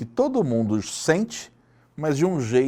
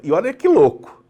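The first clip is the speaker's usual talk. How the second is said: high and loud, amazed; amazed and louder; excited; 7 semitones higher, 7 dB louder than usual. Real, not acted. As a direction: sell the wonder, voice up. Excited aside.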